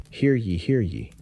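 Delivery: town crier's high, ringing call; hollering. A narrator's reading. Town crier calling the morning proclamation to the townsfolk, hollering. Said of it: "he hollers".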